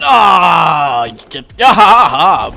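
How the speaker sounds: loud laughing yell; laughing shout. Real, not acted.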